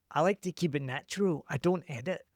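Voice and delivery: lightly put-on vague accent, smug and proud; mock accent. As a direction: quote the proud poster in a silly made-up accent. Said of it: "I don't know what accent that was".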